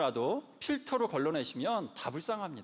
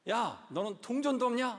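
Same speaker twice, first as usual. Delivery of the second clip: mock annoyed retort, a touch higher; irritated snap; 5 semitones higher than usual. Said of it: "승질을 막 이렇게 내게 되죠".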